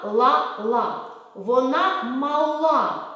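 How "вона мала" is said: slow and louder, words drawn out; sing-song rhyme; slow drill. Shown as a demonstration. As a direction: model it slowly for children. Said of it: "Повторіть".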